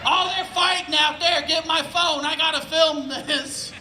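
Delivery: eager onlooker calling for a phone; excited spying. Acted. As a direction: gleefully report the fight from the window. Acted excited peeking through blinds.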